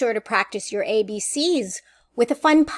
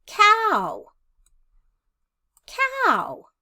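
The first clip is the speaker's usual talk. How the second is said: slow, sing-song preschool teacher delivery; playful questions with clear pauses; teaching young children; 2 semitones higher than usual. Shown as a demonstration. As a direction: lead a clapping game, word by word. Demonstrates a syllable game for children.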